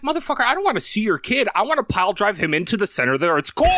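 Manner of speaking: hammed-up rage at the apologetic boss; mock furious. Furious retort in retold scene.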